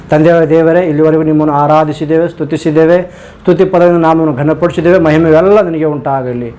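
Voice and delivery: hushed, earnest prayer to God the Father; closing prayer. Real, not acted. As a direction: pastor leads the congregation in closing prayer, devout and subdued. Closing prayer after eyes closed.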